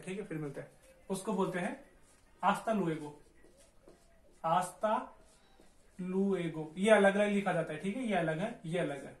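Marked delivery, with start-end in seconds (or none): 2.4-6.7 आस्ता लुएगो with no h, as-ta lwe-go; Spanish hasta luego. Shown as a demonstration. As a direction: split it, आस्ता then लुएगो, h silent. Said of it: "आस्ता इसलिए बोल रहा हूँ".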